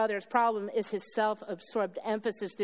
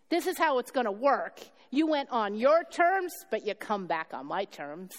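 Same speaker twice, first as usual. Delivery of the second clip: father's voice; 3 semitones higher than usual. Acted. Preacher voicing the father welcoming his son home, earnest. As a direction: play the father, tender then firm.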